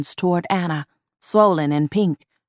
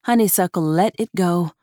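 usual speaking voice

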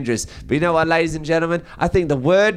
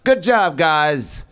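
hearty police chief; 3 semitones lower, slower than usual. Retold or imitated. Chief praising his men at the press conference, hammed-up cheer. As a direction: congratulate the squad, drawn out. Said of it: "It was like".

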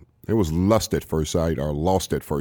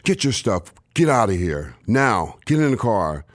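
retold commands; 3 semitones higher than usual. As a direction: bark the orders to get him out. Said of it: "and she goes".

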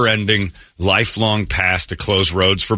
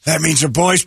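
sportscaster impression; 7 semitones higher than usual. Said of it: "Tony Romo".

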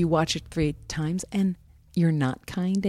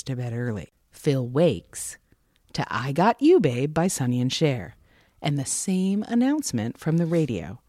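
movie announcer voice. Shown as a demonstration. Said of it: "I'm gonna do the movie announcer voice".

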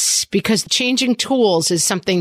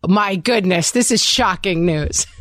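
mock shock; 3 semitones higher than usual. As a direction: tease with fake surprise. Teasing fake shock at host's confession.

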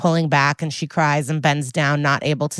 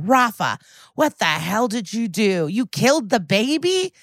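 shocked accusation; 5 semitones higher than usual. Retold or imitated. Acted confrontation after running up.

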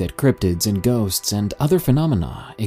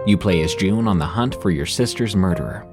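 ad read. Acted. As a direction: sell it like a podcast ad. Narrator reads sponsor ad.

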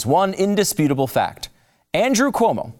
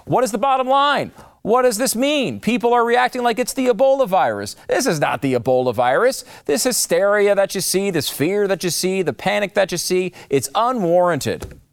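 higher, a lightly mocking take on a politician; mock quote; 5 semitones higher than usual. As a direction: read the quote as a mild parody, pitched up. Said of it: "when he said".

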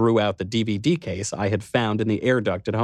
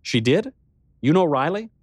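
higher, startled questions; startled disbelief on the phone; 7 semitones higher than usual. A narrator's reading. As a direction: caught off guard, voice jumping up. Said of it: "I let out a startled laugh".

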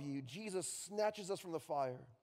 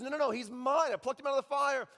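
Jesus claiming him; 6 semitones higher, 7 dB louder than usual. Acted. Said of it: "Jesus says".

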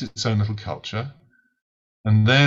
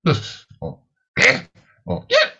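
mock bark; 10 semitones higher, 3 dB louder than usual. Shown as a demonstration. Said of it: "you can bark in a number of ways".

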